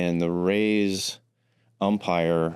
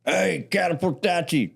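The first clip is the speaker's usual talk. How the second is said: redneck voice; 10 semitones higher than usual. Retold or imitated. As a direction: bark it like an old redneck. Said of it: "the old redneck's like".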